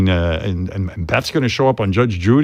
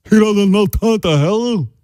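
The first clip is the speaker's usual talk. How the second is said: mother voice; 8 semitones higher than usual. Retold or imitated. Son voicing his mother.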